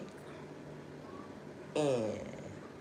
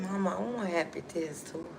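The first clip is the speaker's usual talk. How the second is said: imitated child; 4 semitones higher, 4 dB quieter than usual. Young son pleads with mother.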